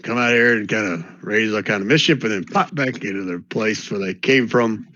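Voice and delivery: put-on an old-timer sure of his folk tales; cranky old geezer. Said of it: "that guy's Yosemite Sam".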